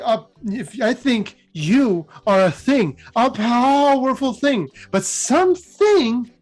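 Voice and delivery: slow, drawn-out villain voice, only lightly put on; lightly voiced gloating necromancer; Liliana on a power trip. Liliana gloats at Emrakul, lightly voiced slow menace. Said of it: "and she's like".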